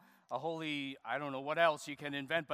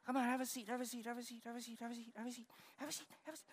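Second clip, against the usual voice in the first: quiet coaxing; 7 semitones higher, 9 dB quieter, much faster than usual. Real, not acted. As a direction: hush it down, no shouting. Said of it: "I gotta talk like this from here".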